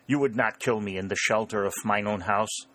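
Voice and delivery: lightly voiced German-accented farmer; a hint of a worried German farmer. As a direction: protest in a mild German accent.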